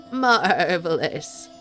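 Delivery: slow goat voice; drawn-out goat voice. Acted. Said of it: "I'm glad you like the goat voice".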